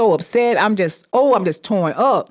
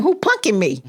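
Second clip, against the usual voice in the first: plain puzzled asking; disbelief. Retold or imitated. To the sheriff at her door, puzzled question. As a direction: ask it half to herself.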